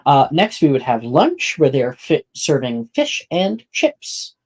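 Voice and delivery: measured, clearly projected scene setting; game master narration. Acted. Game master walking players through the class day, narration. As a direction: present it like a guide to the school.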